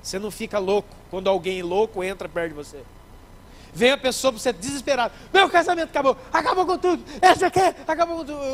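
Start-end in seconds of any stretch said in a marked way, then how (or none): 5.3-8.5 high, loud, frantic cry that it's all over; desperate wail. Acted. A desperate church member cries out to the preacher, high and loud. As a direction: panic pouring out, pitched up and loud.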